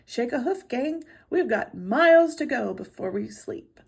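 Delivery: a lightly voiced Santa calling to the team; cheerful order to the reindeer; hearty Santa. Santa hurrying his reindeer along.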